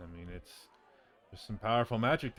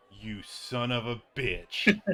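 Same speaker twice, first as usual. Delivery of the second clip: mock outrage; 2 semitones higher, 6 dB louder, slower than usual. Rob reacts to team nickname.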